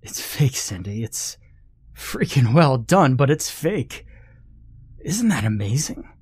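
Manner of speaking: breathless, shaky whisper; panting. Acted. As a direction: gasp it out, out of breath. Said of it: "I was panting when I opened my mouth".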